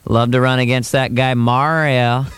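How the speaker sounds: slightly slow, lightly voiced Bush; slow, clipped Bush bravado; George Bush impression. At a Democrat benefit, lightly voiced Bush. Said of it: "I'm Bush with the whole thing on going".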